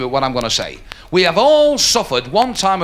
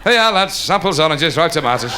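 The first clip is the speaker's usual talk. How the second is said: street vendor's cry. Acted. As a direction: call your wares through a crowd. Tray seller again.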